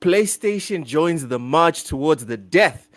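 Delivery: upbeat announcer read, stretching the special guest build-up; hyped-up show intro; podcast host intro. Acted. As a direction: open the show like an eager host.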